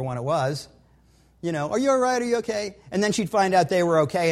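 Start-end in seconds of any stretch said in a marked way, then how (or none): 1.7-2.8 higher, louder, a mother's anxious check; a light imitation of a fussing mom; worried mother. Wife imitated checking on her hurt son, anxious. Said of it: "my wife, on the other hand".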